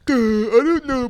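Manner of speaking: put-on high, loud, slow dopey baby; whiny babyish imitation, drawn out; mock baby voice. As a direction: put on an exaggerated clueless-baby voice. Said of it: "turn you into a baby".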